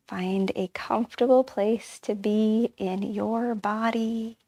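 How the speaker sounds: unhurried meditation guide, drawing out the last words; guided meditation. Acted. Guide inviting listeners to settle in their bodies, guided meditation. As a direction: ease listeners into settling, stretching the final phrase slowly.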